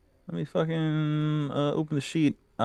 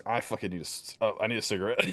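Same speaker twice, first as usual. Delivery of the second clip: weary mutter; 3 semitones lower, 6 dB quieter, much faster than usual. Acted. Character craves a cigarette.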